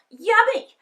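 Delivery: put-on high, loud goody-goody child; Peter's sweet voice. A narrator's reading. Peter delighting in dinner, high and sweet. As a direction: chirp it like the perfect little brother. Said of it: "said Perfect Peter".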